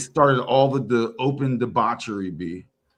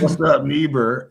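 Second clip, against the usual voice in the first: American greeting; 5 dB louder than usual. Retold or imitated. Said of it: "how you enunciate".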